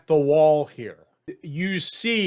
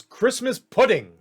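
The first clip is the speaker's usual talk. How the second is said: higher, louder shouted cry; yelled command; 7 semitones higher, 4 dB louder than usual. Acted. Guard yells at the toy soldiers, yelled. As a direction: yell it out as a signal.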